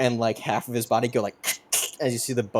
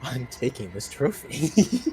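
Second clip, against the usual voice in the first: slow, drawn-out character voice with swooping pitch. Narrating a game scene and voicing a character: Paul's voice. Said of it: "in Paul's voice".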